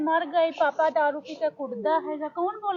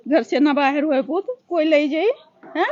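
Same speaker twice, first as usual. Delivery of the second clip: raised scolding; 7 dB louder than usual. Real, not acted. Mother still scolding loudly.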